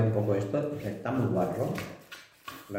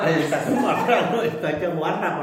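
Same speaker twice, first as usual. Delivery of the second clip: laughing; 5 semitones higher than usual. Real, not acted. Laughing while tasting.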